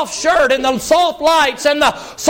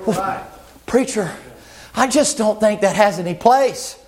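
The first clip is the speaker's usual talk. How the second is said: much lower and softer, prim objection; mock critic; 7 semitones lower, 3 dB quieter than usual. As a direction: mutter it like a stiff disapproving member. Critic objecting to loud preaching.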